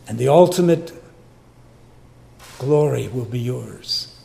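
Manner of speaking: measured prayer voice to God; humble congregational prayer; closing prayer. Real, not acted. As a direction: pray it humbly to the Father.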